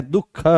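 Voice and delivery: "दुख" as duh-kha; correct visarga pronunciation. Shown as a demonstration. Teacher giving the correct pronunciation, "दुख" with ह before ख. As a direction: put an audible h before the ख in "दुख". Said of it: "उच्चारण शुद्ध क्या है".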